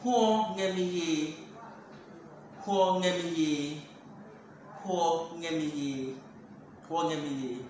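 slow, carefully spaced "Huo ngemi ye"; slow repeated demo. Shown as a demonstration. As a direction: say "huo ngemi ye" slowly, word by word.

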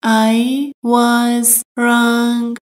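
"I was wrong" drawn out word by word; very slow, careful. Shown as a demonstration. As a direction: spell it out slowly. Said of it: "teacher repeats slowly". (خیلی آهسته و شمرده)

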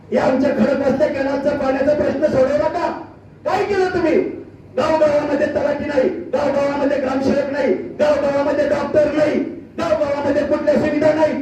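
insistent, rhythmic accusations to a crowd; declaimed stump-speech indictment; rally oratory. Real, not acted. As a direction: hammer out a list of failures. Political speech at full force.

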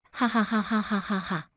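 short bitter laughter, a little quiet. Acted. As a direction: laugh at him coldly, as if it's all absurd. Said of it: "给我听笑了". (冷笑着哈哈大笑)

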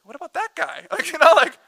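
high, whiny, jealous complaint; whiny Peter. Retold or imitated. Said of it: "He's like".

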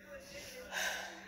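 heavy breathless sigh; long exhausted sigh; tired sigh. Real, not acted. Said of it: "I'm so out of breath".

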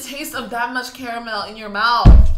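slow, loud, drawn-out grossed-out voice; exaggerated disgust. Real, not acted. To viewers, imagining the caramel's thickness, slow disgusted drawl. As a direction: savour the disgust slowly and loudly.

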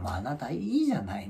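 whispered wife calming him; wife soothing. Retold or imitated. Wife quietly calming her angry husband, whispered.

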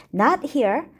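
Not hit with a rising tune; stress on not. Shown as a demonstration. Teacher contrasts here and there, stressing Not. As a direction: lean hard on Not. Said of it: "To emphasize the contrast".

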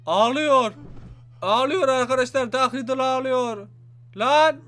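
loud exclaim to the viewers; excited exclaim. Real, not acted. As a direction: announce it with loud glee. Dark Riddle crying on screen.

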